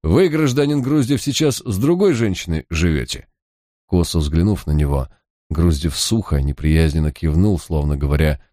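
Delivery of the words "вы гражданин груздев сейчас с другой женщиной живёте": slow, stretched-out words; drawn out. A narrator's reading. Detective to the suspect, slow and drawn out. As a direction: stretch each word like a showman. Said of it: "в растяжку сказал".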